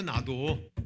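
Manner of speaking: ordinary talk, nothing marked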